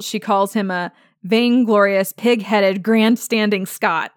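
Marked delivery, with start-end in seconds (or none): 1.3-4.1 a touch of Claire scolding, grandstanding slowed; light retold tirade, grandstanding spelled out slowly; mild mock reaming out. Claire scolding Jamie on the battlefield, mildly mocking. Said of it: "she basically reams him out".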